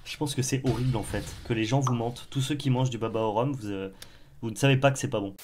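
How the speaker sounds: stuffy blocked nose. Real, not acted. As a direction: speak through a blocked nose. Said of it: "Je vais me moucher".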